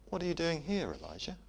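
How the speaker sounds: soft, hushed and gentle; gentle whisper. Shown as a demonstration. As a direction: ask it tenderly, almost whispered. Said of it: "It's a gentle whisper".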